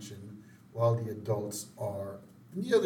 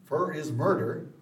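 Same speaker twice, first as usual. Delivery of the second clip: Dr. Hibbert voice; 5 semitones higher than usual. Retold or imitated.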